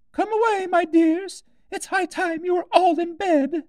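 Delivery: very high, fluttery bird-mother voice; a little bird hurrying her chicks to bed; trembling canary mother. A narrator's reading. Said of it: "called out in a trembling voice".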